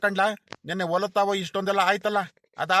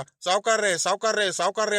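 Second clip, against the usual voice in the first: mocking the calls; 3 semitones higher than usual. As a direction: mimic the repeated "ಸಾವ್ಕಾರ್ರೆ" calls, lightly exaggerated. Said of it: "ನೂರ್ ಸಲಿ ಕರಿತೀಯಲ್ಲ".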